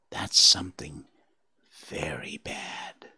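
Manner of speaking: slow, hushed whisper; whispered dread. Acted. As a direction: draw it out fearfully. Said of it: "he whispered".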